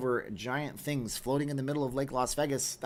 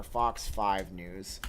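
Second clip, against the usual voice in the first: slow spelled-out search; 4 semitones lower, much slower than usual. Shown as a demonstration. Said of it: "you type in Fox five News".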